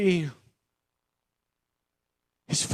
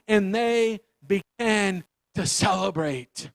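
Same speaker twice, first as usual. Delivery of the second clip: scripture reading; 2 semitones higher than usual. Acted. Reads scripture passage.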